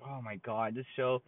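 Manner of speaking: quietly fed up, retelling your own weariness; sick and tired. Retold or imitated. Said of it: "so sick and tired of".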